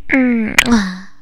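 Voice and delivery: a loud smacking air kiss. Acted. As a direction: blow a big playful kiss. Blows her pet a kiss.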